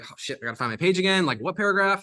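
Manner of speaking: mock flustered, pitch climbing into the question; flustered reader. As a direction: act out a reader hunting for their place. Acts out reader hunting for the page.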